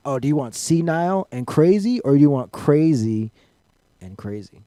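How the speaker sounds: loud, high, hammed-up offer; mock excited offer. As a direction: bark the choices like a salesman. Mocking menu of evil.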